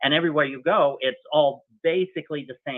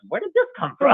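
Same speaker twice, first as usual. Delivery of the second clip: high, louder, laughing question; laughing puzzlement; 13 semitones higher, 6 dB louder than usual. Retold or imitated. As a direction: ask it while breaking into laughter. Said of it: "I'm like".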